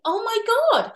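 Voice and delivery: high, loud dismayed "Oh my God"; a child reeling in disbelief; shocked inner gasp. Retold or imitated. Child hearing parent deny it, shocked.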